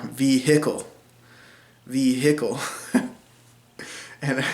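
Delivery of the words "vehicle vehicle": "Vehicle" as vee-hick-ul with the h, as heard in Missouri; Southern vehicle. Shown as a demonstration. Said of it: "I heard that a lot more".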